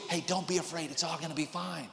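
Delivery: hushed, soft reassurance; soft whisper. Pretend. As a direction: whisper it to calm a scared student. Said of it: "like, whisper".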